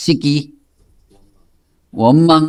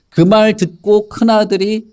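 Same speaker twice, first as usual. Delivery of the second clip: usual speaking voice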